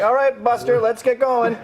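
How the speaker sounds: coffin-floating guy. Retold or imitated. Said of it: "floating up from the coffin and going".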